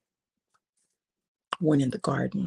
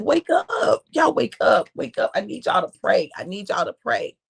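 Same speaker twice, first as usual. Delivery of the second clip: urging; 3 semitones higher, 4 dB louder than usual. Acted. Jesus rousing sleeping disciples.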